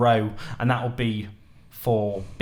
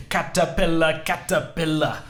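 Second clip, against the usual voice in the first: animated, higher-pitched teacher voice; teaching voice; 5 semitones higher than usual. Shown as a demonstration. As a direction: chant it to the class like a lively teacher. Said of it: "that's my teaching voice".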